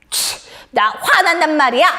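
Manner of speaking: put-on huffy child with a scoff; mock cross little outburst; acted anger. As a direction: protest like a sulking kid. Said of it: "하고 화를 내는 것이 아니라".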